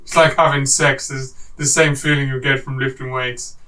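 slow, low, hammed-up Arnie accent; Arnold impression. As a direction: drag out the words like a bodybuilder Arnie. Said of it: "I'm not gonna do the impression".

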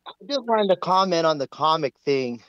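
phone line audio; speaking through a phone; over the phone. Real, not acted. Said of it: "I'm actually on my phone right now".

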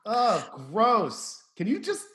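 put-on embarrassed teenager nagging his mother; whiny teen son.

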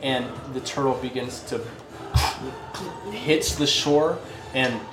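story narration. Acted. Game master scene setting.

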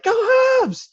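high shouted cheer; team yelling. Retold or imitated. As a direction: yell it out like a cheering squad. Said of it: "screaming at me".

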